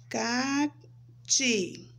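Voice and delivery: "Cati" split as Ca, pause, ti; syllable by syllable. Shown as a demonstration. Teacher reviews her name's first two syllables, one by one. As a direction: separate the two pieces of "Cati". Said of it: "a segunda sílaba é".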